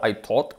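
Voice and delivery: "taught" with a pure rounded O; wrong O vowel. Shown as a demonstration. Teacher shows what to avoid, "taught" with full O. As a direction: round "taught" into a Spanish O, like "tot". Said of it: "ni una O".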